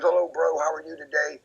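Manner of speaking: high, bright hey buddy; cheery greeting. Retold or imitated. Walking home from work, greeting Otis high and bright. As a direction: call up to him brightly.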